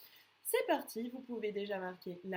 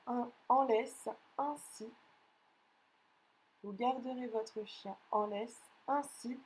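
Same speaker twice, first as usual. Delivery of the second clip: dictating. Acted. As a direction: read each chunk out for pupils to write. Teacher reads a dictation.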